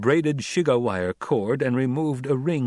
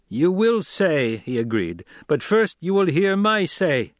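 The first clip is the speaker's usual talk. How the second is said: bend them with the power of his trained Voice; commanding Voice; 7 semitones higher, 4 dB louder than usual. A narrator's reading. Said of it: "used the powers of voice".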